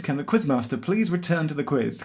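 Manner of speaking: shop intercom colleague announcement; store announcement voice. Acted. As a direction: read it like a supermarket tannoy. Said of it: "Colleague announcement".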